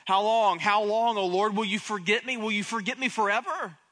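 loud, pleading lament, not full force; David crying out to the Lord in a cave, pleading loudly; mild cry out to God. Acted. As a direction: call out to God in anguish, held back. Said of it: "David cried out".

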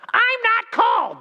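put-on high, slow, stubborn kid's whine; high kid voice drawn out on cold; child's retort. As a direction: play the defiant little kid insisting. Child protests to dad.

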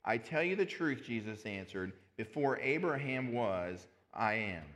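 emphatic, projected Bible verse with weighty pauses; solemn public reading, deliberately paced; scripture reading. Acted.

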